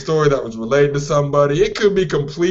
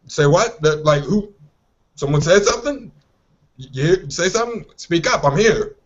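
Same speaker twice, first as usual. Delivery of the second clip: angry black parent; 2 semitones higher than usual. Retold or imitated. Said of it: "turned around like a black parent".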